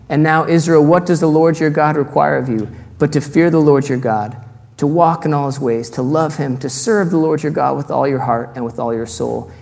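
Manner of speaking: solemn public reading of scripture. Acted. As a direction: read the verse out like a proclamation. Reads Deuteronomy aloud.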